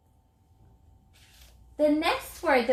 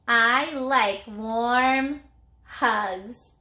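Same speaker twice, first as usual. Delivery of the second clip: slow model sentence; much slower than usual. Shown as a demonstration. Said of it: "model sentence".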